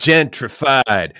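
drawn-out word. Real, not acted. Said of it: "David is gonna get gentrified".

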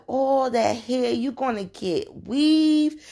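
put-on high, slow little girl asking; piping little-girl question. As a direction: imitate a small child, wide-eyed and curious. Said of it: "she was a little girl".

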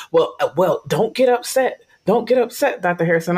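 mock soothing, talking down to her; condescending calming. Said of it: "And they're like".

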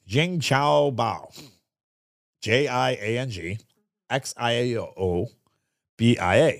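slow, careful try at "Jing Chao Bao"; hesitant stab at the Chinese name; careful attempt at Chinese. Shown as a demonstration. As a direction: sound out "Jing Chao Bao" syllable by syllable, then spell it. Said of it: "And I'm gonna pronounce it".

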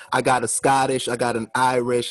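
lightly voiced Toronto accent; a hint of Toronto accent. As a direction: do a rapper's Toronto accent, understated. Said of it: "They all talk like that".

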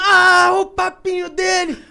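high, drawn-out mock scream; geschreeuw nagedaan. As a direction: wail it out loudly, stretching the words.

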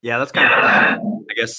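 speaking in a big echoing hall; echoing room. Real, not acted. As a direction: voice bouncing around a bare room. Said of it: "sorry, I'm echoing in here".

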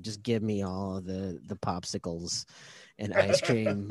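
put-on quiet, slow, pleading little kid; whiny child voice. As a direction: whine like a sick four-year-old. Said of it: "like a four-year-old who just got his tonsils out".

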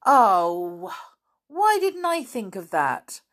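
put-on boy cross at himself, high and loud; Dick. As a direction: kick yourself for missing it.

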